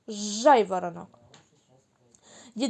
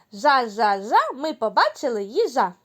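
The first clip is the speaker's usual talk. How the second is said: bright, louder joyful chant; 5 dB louder than usual. Shown as a demonstration. Teacher shows children a joyful chant. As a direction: chant it happily, with a lift. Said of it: "Треба радісно вимовити слова".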